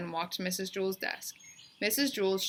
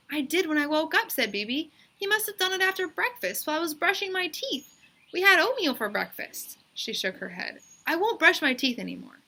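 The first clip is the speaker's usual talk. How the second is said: put-on girl's insistent voice; 9 semitones higher, 4 dB louder than usual. A narrator's reading. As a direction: draw out the yes like a stubborn kid. Bebe explains to teacher.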